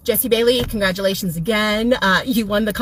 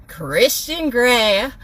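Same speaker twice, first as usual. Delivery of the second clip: mock announcer; much slower than usual. Real, not acted. Sarcastic prize reveal.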